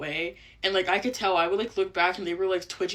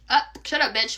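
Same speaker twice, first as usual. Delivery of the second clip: tic outburst; 4 semitones higher, 6 dB louder than usual. Real, not acted.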